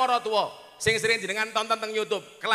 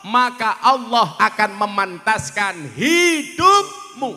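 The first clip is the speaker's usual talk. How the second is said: louder, slow preaching with raised questions; sermon voice, slow and loud; slow sermon delivery; 6 semitones higher, 7 dB louder, slower than usual. Acted. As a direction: preach it over the music, drawn out. Preaching over music.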